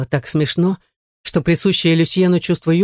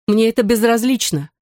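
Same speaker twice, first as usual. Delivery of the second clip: higher, sharp cry of protest; exclaiming; 6 semitones higher than usual. A narrator's reading. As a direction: blurt it out indignantly. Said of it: "воскликнула Мари Жозеф". (восклицая)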